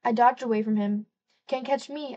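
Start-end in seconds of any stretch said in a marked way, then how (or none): 1.5-2.2 higher, teasing and playful; gleeful. Acted. Girl taunting Conrad in the pool, gleeful and higher. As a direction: taunt him like a gleeful kid. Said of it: "I said gleefully".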